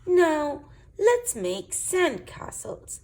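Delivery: high, loud eager call; high, loud and slow sandcastle call; cries out. Acted. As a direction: call it out with delight. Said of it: "cries Ben".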